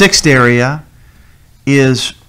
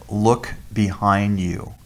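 slow, soft warning from an unseen voice; soft, slowed warning behind him; quiet voice; 6 dB quieter, slower than usual. Retold or imitated. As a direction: hush it like a voice out of nowhere. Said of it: "he heard a voice".

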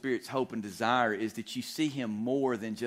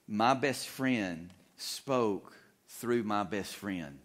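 said slowly and deliberately; preacher drives home his key line slowly; slow emphatic line; much slower than usual. Acted. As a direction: let each word land, unhurried. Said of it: "the repeat at line 81".

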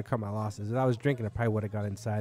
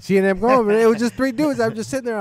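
worked-up; 10 semitones higher, 10 dB louder than usual. Real, not acted. Exasperated retelling of letdown.

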